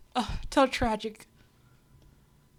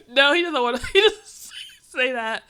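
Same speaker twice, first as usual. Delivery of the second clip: laughing; 3 semitones higher, 10 dB louder than usual. Real, not acted. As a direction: burst out laughing as you correct yourself. Laughing at own joke mid-retelling.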